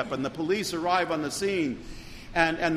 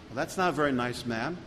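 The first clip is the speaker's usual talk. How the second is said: gently unruffled, easy on the ma'am; calm polite reply; 2 semitones lower, 3 dB quieter than usual. Retold or imitated. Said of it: "he set an example".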